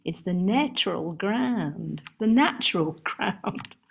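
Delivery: put-on local Essex accent. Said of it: "I can't quite do the accent".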